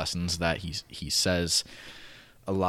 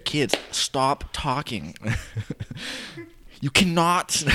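coach voice; 8 semitones higher, 5 dB louder, slower than usual. Retold or imitated. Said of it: "kids' class".

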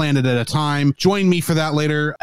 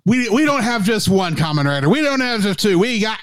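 hype announcer; 5 semitones higher than usual. Pretend. Hyping Kamen Rider fight like announcer.

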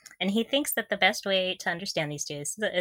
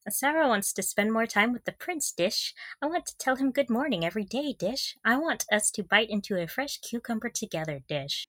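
imitating Sarah; 4 semitones higher than usual. Quoting Sarah pining for her prince, lightly dreamy. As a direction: gush sweetly about her prince, trailing off. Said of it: "And then she says".

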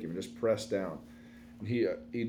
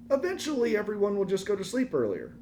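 pitched up high, bright reassurance; reassuring; 10 semitones higher than usual. Retold or imitated. Husband reassuring his wife, mock cheerful high. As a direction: say it like it's obvious. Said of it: "I go".

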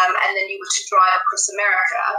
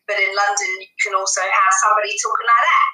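broad Cockney London speech; demonstrated Cockney accent; faster than usual. Shown as a demonstration. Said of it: "which is kind of like a Cockney accent".

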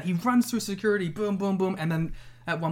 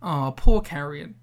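mock pity; 3 semitones lower, 6 dB louder, slower than usual. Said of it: "our lasting impression shouldn't have been".

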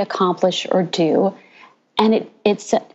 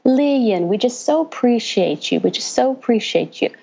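put-on Southern accent; 3 semitones higher than usual. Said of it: "kept saying in the Southern accent".

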